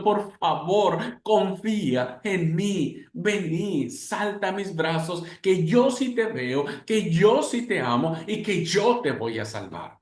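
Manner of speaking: slow, tender pleading; a patient father calling his child home; the loving heavenly Father calling to his children, tender; loving plea. Acted.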